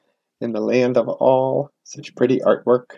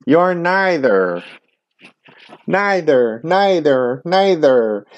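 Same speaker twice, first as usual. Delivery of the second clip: mild taunt; 4 semitones higher, slower than usual. Acted. The bird bunny is teased.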